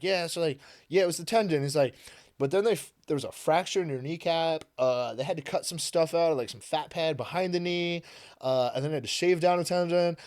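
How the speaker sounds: lightly voiced doctor listing the damage; doctor reading notes.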